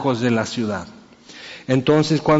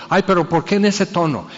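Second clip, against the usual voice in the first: a higher, offended whine; mock a child offended by someone's tone; 4 semitones higher than usual. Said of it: "modificar el tono".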